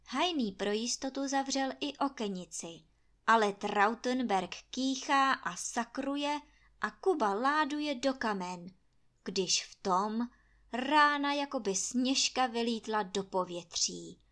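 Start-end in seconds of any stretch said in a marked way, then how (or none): none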